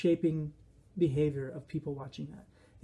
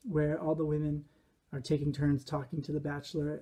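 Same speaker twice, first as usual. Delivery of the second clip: usual speaking voice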